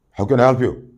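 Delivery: same question made to sound threatening; harsh and threatening. Shown as a demonstration. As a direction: bark it like a threat. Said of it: "It means, "I'm, I'm going to come and kill you".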